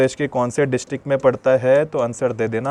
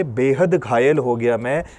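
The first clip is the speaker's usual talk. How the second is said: slow repeat. Shown as a demonstration. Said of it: "कैसे बोलोगे?".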